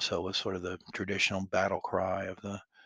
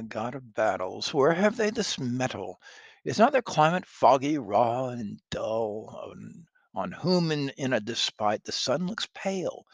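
indignant lord; 5 dB louder than usual. Acted. Constable's speech.

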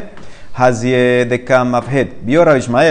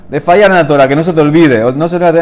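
insistent emphasis; 4 semitones higher, 6 dB louder, faster than usual. Acted. Teacher insists on Torah fear.

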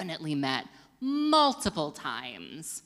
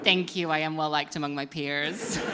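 laughing retake. Shown as a demonstration. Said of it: "I'll take it again".

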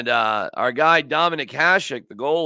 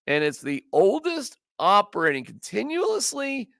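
pitched higher, lightly excited; voice going high; 6 semitones higher than usual. Real, not acted. Telling Johnny about the old bar, pitched higher. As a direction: voice climbing up as he tells it. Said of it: "My voice is going very high".

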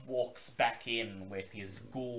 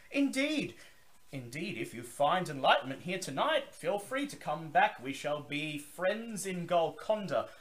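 high, loud, grand vampire host's welcome; Zachary Forge; 8 semitones higher, 7 dB louder than usual. Acted. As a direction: boom it out like a theatrical old vampire. Zachary nods and replies.

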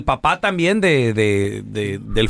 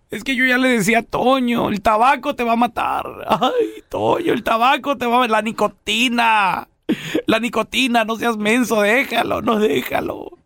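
put-on high, pleading old mother voice; lightly voiced fretful mother; scolding mother; 4 semitones higher than usual. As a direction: nag him like a fretful wife, hammed-up. Mother scolding dead husband, skit.

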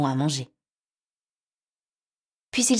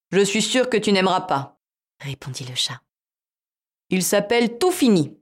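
cat voice; 3 semitones higher, 5 dB louder than usual. Acted.

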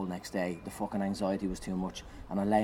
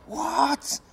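shocked what; 4 dB louder than usual. Retold or imitated. Shocked reaction to dad.

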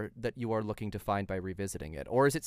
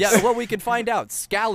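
a hint of a hammy pirate; 11 semitones higher, 10 dB louder than usual. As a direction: growl it like a pirate. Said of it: "It's the pirate voice".

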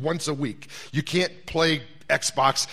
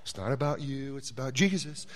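wife's gentle advice; 5 dB quieter than usual. Retold or imitated. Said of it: "she says something like".

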